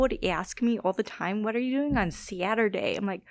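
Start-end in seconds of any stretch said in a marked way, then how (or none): 1.4-3.0 broad Midwestern vowel in "Saturday"; old Midwestern accent. Shown as a demonstration. Demonstrating the old hometown accent, Midwestern accent. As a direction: put on an exaggerated Upper Midwest accent. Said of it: "my accent used to be so bad".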